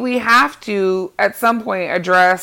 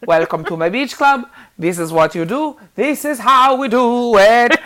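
lightly put-on odd foreign-ish accent as Lindsay Lohan, welcoming; mock Lindsay Lohan greeting guests in her new accent, a Palestinian-born-in-Israel lilt; Lindsay Lohan's weird accent. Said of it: "She's only talking like this".

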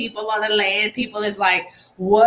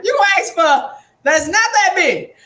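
mock disbelief; 9 semitones higher, 5 dB louder than usual. Mock disbelief at a small ask.

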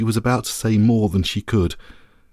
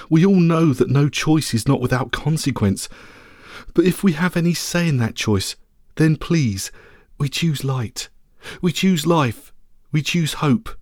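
lightly raised, worried small dog; anxious little dog voice; 3 semitones higher than usual. Acted. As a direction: plead as a small brave dog.

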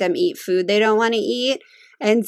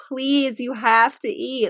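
mild mock pleading, slowing down; retold begging; slower than usual. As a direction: plead lightly, drawing out the request. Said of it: "I was begging him to eat".

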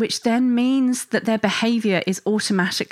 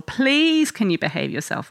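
pleading; 3 semitones higher than usual. Retold or imitated. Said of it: "try and plead with them".

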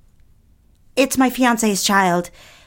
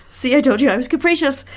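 laughing through tears; 4 semitones higher, faster than usual. Acted. Tearful woman laughs it off.

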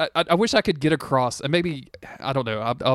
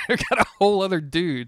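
laughing, higher-pitched echo; amused; 6 semitones higher than usual. Real, not acted. Host echoing co-host's joke about the subplot, laughing. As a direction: say it through a laugh.

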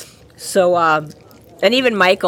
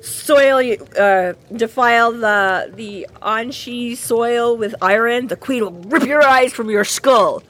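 mock outrage; 2 semitones higher, slower than usual. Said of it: "she gets real pissed off".

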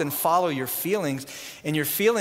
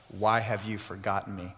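hushed lament; 8 semitones lower, 7 dB quieter than usual. Acted. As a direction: put the question quietly to God, low. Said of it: "And David said to God".

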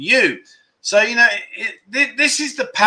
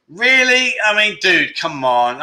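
incredulous; 3 semitones higher, slower than usual. Real, not acted. Incredulous at pool lesson offer.

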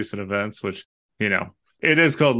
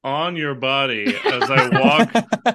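higher, louder sneering toff, slowing as he laughs; mock snobbish rich person; 4 semitones higher, 3 dB louder, slower than usual. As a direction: scoff at the poor like a spoiled aristocrat. Mocking a callous rich person.

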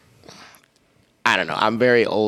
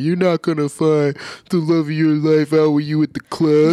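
preachy stereotype voice; 5 semitones higher than usual. Retold or imitated. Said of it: "stereotypical of the people be like".

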